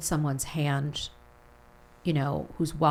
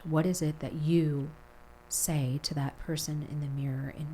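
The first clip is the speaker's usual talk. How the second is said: guided visualization. Acted. Leads a mirror visualization.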